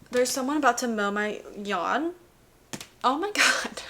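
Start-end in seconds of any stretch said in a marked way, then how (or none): 3.0-3.8 laughing in disbelief; giggling through the words. Real, not acted. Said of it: "I'm laughing".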